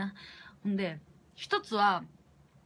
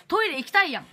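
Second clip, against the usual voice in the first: higher and louder, pressing need; urgent; 7 semitones higher, 6 dB louder, faster than usual. Real, not acted. Telling friends she badly needs the toilet, urgent and loud. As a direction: push it out like you really have to go.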